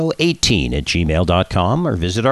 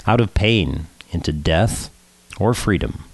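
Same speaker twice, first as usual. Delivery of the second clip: solemn, measured poem recital; poetry reading; 2 semitones lower than usual. Acted. Host reads Passover poem on air, solemn recital. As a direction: read it gravely, falling at phrase ends.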